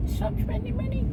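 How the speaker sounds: high, put-on scolding voice; shrill-free high imitation of her telling him off; mock nagging Zena. Boyfriend mimics girlfriend's scolding, high mock voice. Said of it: "Zena said to me".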